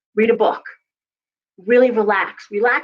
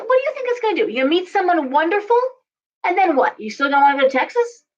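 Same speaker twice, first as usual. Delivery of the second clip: much higher, worked-up questioning; mock exasperation, pitched way up; exasperated reader; 7 semitones higher, faster than usual. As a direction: push back at the client in disbelief. Reader argues with client.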